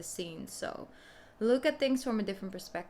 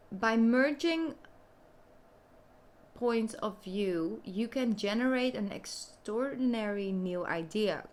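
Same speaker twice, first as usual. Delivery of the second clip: card-reading voice. Real, not acted. Reading the balance card's message to Sagittarius, deliberate read-aloud voice. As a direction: read the message out, pausing between phrases.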